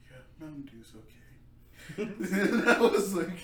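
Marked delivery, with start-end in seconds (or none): 0.1-1.0 mock defeated. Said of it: "and Jaime's like".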